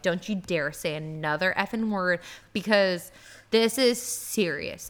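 retold stern warning, slowing at the end; deadly serious. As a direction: warn them in a controlled, serious voice. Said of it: "in the most serious face I've ever looked".

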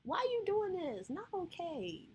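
high, pleading protest without real volume; mock cry out in pain; retold scream. Woman replays pleading with her abusive partner, high mild cry. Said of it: "I remember screaming. I was like".

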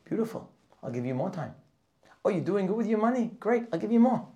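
high, loud, beaming praise; delighted God's voice. Acted. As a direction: reward them with bright enthusiasm. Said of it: "Hashem will say".

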